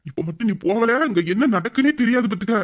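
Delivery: hammed-up fuming at his pal; angry friend warning him to leave; mock fury. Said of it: "செம்ம வெறியில இருக்கேன்".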